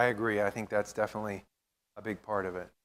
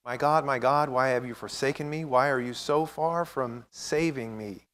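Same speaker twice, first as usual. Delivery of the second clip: emotional reading; 2 semitones higher, 5 dB louder than usual. Real, not acted. Pastor reads Psalm twenty-two to the group, louder and anguished. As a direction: read it like a cry from the heart. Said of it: "I have a hard time reading this without getting emotional".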